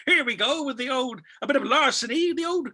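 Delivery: high, relishing schemer's patter; playful conman. Retold or imitated. Conman starting the old meal switcheroo, hammed-up and high. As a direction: announce the scam with sly showmanship. Voicing the conman working the crowd.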